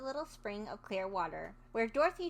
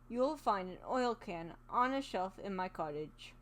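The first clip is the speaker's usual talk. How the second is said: sad voice. Acted. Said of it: "the sad voice in which the man spoke".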